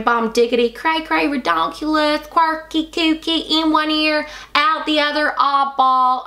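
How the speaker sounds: high, sing-song shade names; playful name reading. Acted. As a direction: read the names like cute toys.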